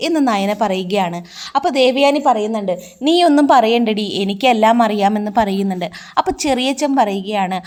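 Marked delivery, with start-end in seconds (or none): 3.1-5.3 angry retort. Retold or imitated. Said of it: "Devayani കലി പൂണ്ട് നിൽക്കുകയാണ്".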